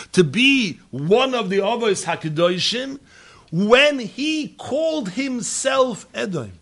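high, loud preaching cadence; impassioned preaching. Acted. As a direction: drive each rhetorical question home. Preacher building to full force.

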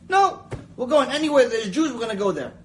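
a sudden loud high "No", then firm; young rabbi answering his friend, loud and insistent; insistent reply. Retold or imitated. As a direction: cut him off, eager and sure. Young Rav Ovadia answering insistently.

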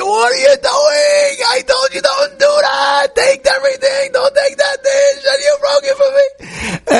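mother screaming at her son over the broken dish. Retold or imitated. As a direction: scream at him like an outraged mother. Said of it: "the mother starts screaming at the person".

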